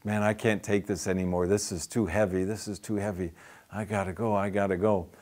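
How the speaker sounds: mildly anxious, wanting to flee; nervous. Retold or imitated. Woman overwhelmed by commandments, softly nervous. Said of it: "she starts getting all nervous".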